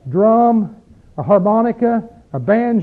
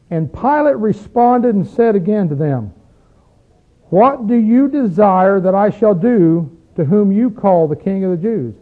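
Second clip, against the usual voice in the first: slow scripture reading. Acted. Reads scripture aloud, slowly.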